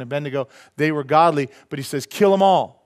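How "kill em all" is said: angry king. Retold or imitated. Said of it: "He got that angry".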